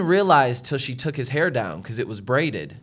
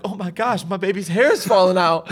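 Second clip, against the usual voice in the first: higher-pitched, mild mock panic; imitated freak-out; 4 semitones higher than usual. Husband imitating wife finding hair in her hands, mild panic. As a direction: play a mother lightly freaking out. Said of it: "she's freaking out".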